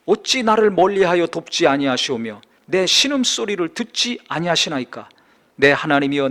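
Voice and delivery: loud, declaiming psalm recitation; solemn scripture reading. Acted. Preacher reading Psalm 22 to congregation, solemn loud declamation. Reads psalm aloud from pulpit.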